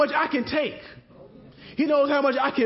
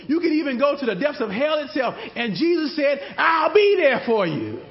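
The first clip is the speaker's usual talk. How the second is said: preaching shout; 4 semitones higher than usual. Real, not acted. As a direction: build it up and call out the promise to the church. Sermon climax, preacher calls out.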